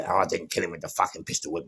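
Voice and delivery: ordinary delivery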